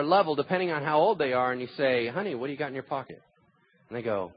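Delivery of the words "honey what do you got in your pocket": gentle parent. Acted. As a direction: ask a small child kindly. Parent gently questions small child.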